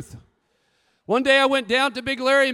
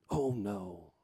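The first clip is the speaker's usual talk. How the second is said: Larry; 14 semitones lower, 11 dB quieter than usual. Retold or imitated. Larry denies eating lunches.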